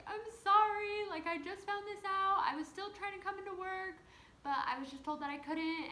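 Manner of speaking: high, tearful, pleading apology. Retold or imitated. Pregnant worker apologising to her angry boss, tearful and high. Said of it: "And so I'm crying on the phone".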